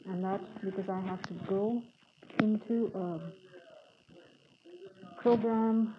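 muffled speech behind a mask; talking while wearing a face mask; through a face mask. Real, not acted. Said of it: "am using a mask right now as I record this podcast".

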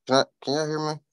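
distorted speaker audio; bluetooth speaker. Real, not acted. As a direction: sound crackly through a speaker. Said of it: "You sound real ate up".

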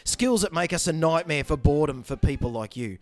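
put-on low, measured movie-threat monologue in own accent; deadpan menace, with falling line ends; Liam Neeson impression. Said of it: "You didn't have the voice".

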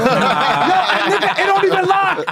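cracking up through the words; laughing disbelief at the flimsy knife. Real, not acted. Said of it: "laughing while telling".

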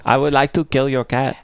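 joking mock Chinese accent. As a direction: play along with an imitation Chinese accent. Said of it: "Chinese accent".

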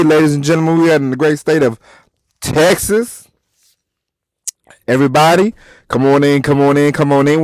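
high hype-man host intro. Acted. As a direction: pump up the crowd like a showman. Hyped podcast host intro.

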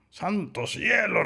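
high, slow, drawn-out astonishment; startled exclamation. A narrator's reading. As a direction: exclaim it high, stretching the words. Wolf reacts to lamb's question. (exclamación aguda de asombro)

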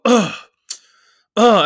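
imitated groan of annoyance; exasperated ugh. Imitating girlfriend sighing while out with him, exasperated ugh. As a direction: let out two separate put-on groans. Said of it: "she'd just go".

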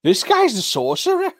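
high laughing disbelief; stunned disbelief. Retold or imitated. Friend voices hunters gaping at the sorcerer, high laughing disbelief. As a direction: squeak it out through laughter.

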